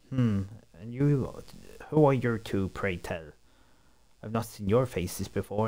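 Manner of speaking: haughty upper-class English gent; posh English bloke. Acted. Perry sizing up the strangers, haughty English voice. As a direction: look down your nose, very proper. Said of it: "He's gonna be the English bloke".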